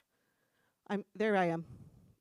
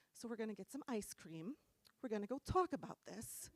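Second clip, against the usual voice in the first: soft, measured mock composure; composed mom; 7 dB quieter than usual. Mom calms girls after confrontation, quietly composed. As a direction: say it softly, holding it together.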